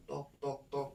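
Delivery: soft spoken knock sounds; imitated wall knocking. Someone unseen knocks on the wall, soft imitated knocking. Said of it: "ada yang ngetok tembok".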